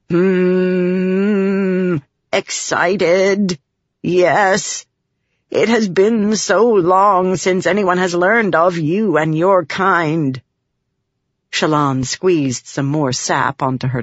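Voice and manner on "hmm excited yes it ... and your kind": lightly voiced alien spren, mildly excited; a touch of an eager spren. A narrator's reading. Spren telling Shallan why he came, mildly excited.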